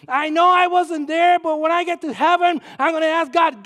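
rousing sermon shout, slowing on the last line; preaching at full force. Acted. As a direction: proclaim it to the congregation.

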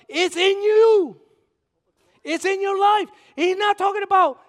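rising from a loud call to a slow, high peak; building preacher shout. Real, not acted. Preacher to the congregation, building to a loud slow peak. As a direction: swell it up until the last words ring out.

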